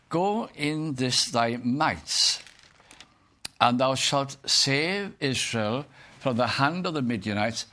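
slow, drawn-out Bible verse; scripture reading. Acted. The Lord commissioning Gideon, slow scripture reading. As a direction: read it out with slow, solemn weight. Reads scripture aloud to the congregation.

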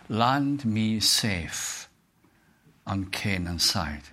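slow, reverent hymn verse; preacher reciting a hymn to the congregation, slow and reverent; hymn recital. Acted. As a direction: read the hymn words slowly and devoutly.

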